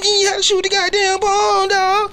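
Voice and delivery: high, loud hype DJ voice; hyped-up radio announcer shouting over the mic. Acted. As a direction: shout it like a live radio host. Radio DJ persona hosting.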